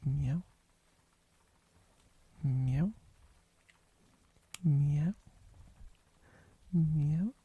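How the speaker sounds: a string of loud rising cat meows. Pretend. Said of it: "First you ask for an English meow".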